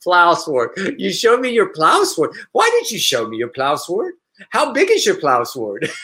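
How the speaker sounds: incredulous mock scolding, rising on the questions; lightly hammed-up offended lecture; mock indignant scolding. Host scolding a stranger who sent an unwanted video, mock indignant.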